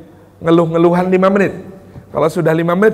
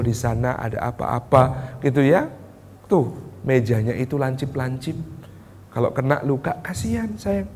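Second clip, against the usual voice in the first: gentle explaining; 5 semitones lower, 6 dB quieter than usual. Retold or imitated. Parent gently explaining to child.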